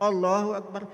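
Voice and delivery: matter-of-fact takbir; mock someone praying on autopilot; unceremonious, memorised delivery; rote prayer. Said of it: "Karena hafal, jalan dia".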